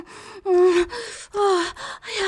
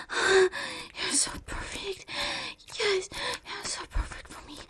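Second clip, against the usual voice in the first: whispering; 4 semitones higher, 9 dB quieter than usual. Acted. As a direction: draw it out in a hush. Slow whispered praise.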